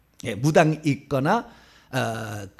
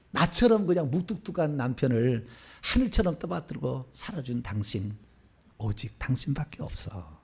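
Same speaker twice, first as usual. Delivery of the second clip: tender declaration; 4 semitones lower, 6 dB quieter than usual. Retold or imitated. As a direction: say it gently like a husband to his wife. Husband's tender words to wife. (아내에게 건네는 부드러운 고백)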